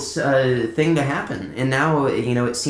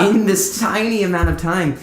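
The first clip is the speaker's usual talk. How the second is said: laughing through the words, a bit louder; 8 semitones higher, 4 dB louder than usual. Real, not acted. Telling a friend about the rushed week, laughing. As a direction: let the laugh break into the line.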